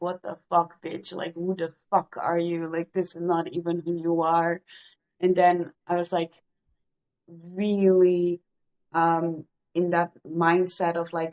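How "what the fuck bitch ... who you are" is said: ordinary talk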